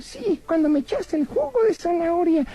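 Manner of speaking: lightly voiced cheeky rabbit puppet; a cheeky little bunny teasing the magician; voz de conejito títere pícaro.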